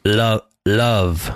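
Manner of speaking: "love" said with a clear, deliberate L; careful L. Shown as a demonstration. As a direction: place the tongue and say "love" with a crisp L. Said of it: "Let me try".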